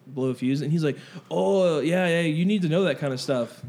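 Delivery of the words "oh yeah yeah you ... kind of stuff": put-on light, wandering Arabic-to-Mexican accent; changed accent. Shop owner advising a customer, wobbly put-on Arabic-Mexican accent. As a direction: loosely imitate a shopkeeper's drifting Arabic-Mexican accent. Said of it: "you changed his accent again".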